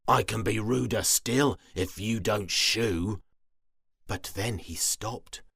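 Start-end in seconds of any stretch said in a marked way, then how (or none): 0.1-3.2 sour threat. Acted. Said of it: "with a sour smile".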